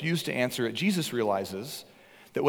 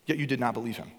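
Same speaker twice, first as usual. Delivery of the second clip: passionate rebuke; 3 semitones higher, 3 dB louder than usual. Acted. Jesus rebukes Pharisees about John.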